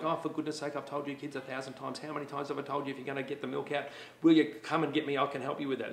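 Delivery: mock-exasperated whinge, a touch quick in the middle; lightly hammed-up whining complaint; whinging parent. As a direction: play a fed-up parent moaning over spilt milk. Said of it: "Whinging would sound like".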